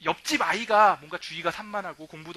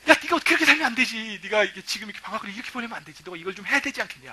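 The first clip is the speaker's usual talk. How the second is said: nagging; 2 semitones higher, faster than usual. Retold or imitated. Pastor reenacting nagging his student leaders, fast scolding.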